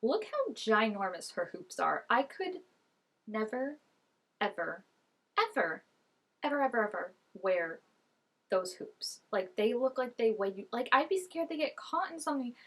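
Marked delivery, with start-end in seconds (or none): 2.1-9.2 each ever spaced and leaned on, building insistence. Real, not acted. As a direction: stretch out every ever like you mean it. Emphatic repeated evers.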